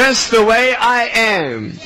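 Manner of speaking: slow, spaced-out model line; measured call for the audience to repeat; repeat-after-me lead. Shown as a demonstration. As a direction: lead a crowd to echo it, slowly. Leads children in a repeat-after-me.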